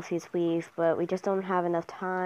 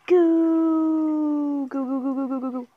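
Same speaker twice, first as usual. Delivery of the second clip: urgent shout; 8 semitones higher, 5 dB louder than usual. Real, not acted. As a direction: cheer them on at high pitch. Urging on players in the game.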